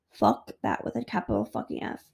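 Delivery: under the breath, unvoiced swearing; muttered aside. Real, not acted. Swearing off wifey chores, muttered under the breath. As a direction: mutter it to yourself.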